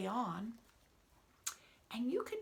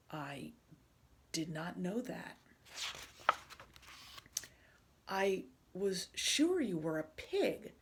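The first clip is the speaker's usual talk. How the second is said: lightly voiced doubtful elephant, louder on the pig lines; a hint of a baffled friend; puzzled Gerald; 5 dB louder than usual. Gerald telling Piggy she looks like a pig, lightly puzzled.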